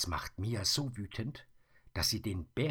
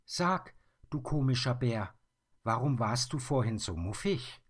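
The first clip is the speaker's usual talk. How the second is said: put-on higher, louder girlish question; curious girl; 6 semitones higher, 6 dB louder than usual. Mia asks the bear why he was grumpy, higher and louder. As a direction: ask the odd bear playfully.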